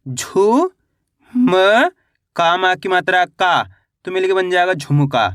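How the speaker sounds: झू and म isolated with pauses, then झुमका blended; syllable-by-syllable spelling. Shown as a demonstration. Teacher showing beginners how to read झुमका, syllable by syllable. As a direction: sound out झुमका one held syllable at a time. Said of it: "एक एक अक्षर का उच्चारण करके".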